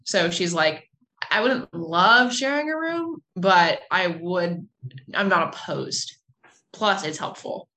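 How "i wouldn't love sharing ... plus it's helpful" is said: slow, reluctant pampered lady; hesitant, a touch spoiled. Acted. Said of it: "she's still used to being kind of, like, pampered".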